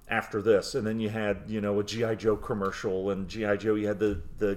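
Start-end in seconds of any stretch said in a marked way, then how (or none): 0.1-0.8 announcer voice. Retold or imitated. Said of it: "that announcer voice".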